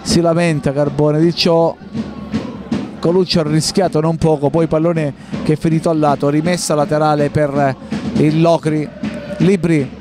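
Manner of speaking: ordinary delivery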